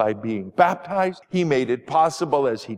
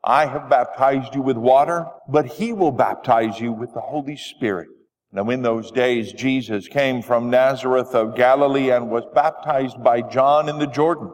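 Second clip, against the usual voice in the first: scripture reading. Acted. Gospel read aloud in church.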